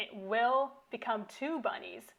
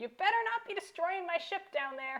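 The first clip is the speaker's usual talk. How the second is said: loud, high-pitched shout; 7 semitones higher than usual. Voicing someone yelling down through the open hatch doors: yelling. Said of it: "you hear a yell from".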